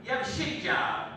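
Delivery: hammed-up angry girlfriend; girlfriend yelling. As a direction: whip it at him like an angry girlfriend. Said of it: "She was like".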